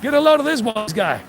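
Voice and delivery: brash New Yorker accent, calling out to a pal. Shown as a demonstration. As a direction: put on a pushy New York wise-guy accent. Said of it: "I started getting that New York accent".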